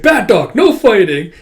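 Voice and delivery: high, loud dog reprimand; mock scolding. Owner to a barking dog, mock scolding. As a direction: break up the dogs sharply.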